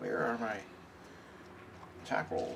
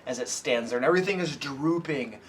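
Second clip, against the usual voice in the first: game master narration. A narrator's reading. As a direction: build the creepy monster reveal. GM describes the monster.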